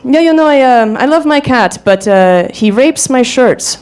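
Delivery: mock thick European accent. Date telling her about his cat, in a mock European accent. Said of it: "he had this really thick European accent".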